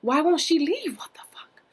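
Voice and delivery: breathy hushed panic; hushed so granny can't hear; panicked whisper. Retold or imitated.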